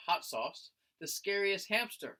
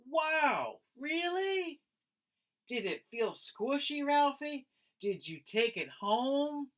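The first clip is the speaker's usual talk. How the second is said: high, eager classmate voice; excited kid questions; 9 semitones higher, slower than usual. Acted. Classmate peppering Ralphie with eager questions.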